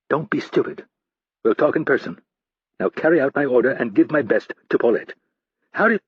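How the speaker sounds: lightly voiced commanding boss; stern boss on phone. Stansfield barks orders over phone.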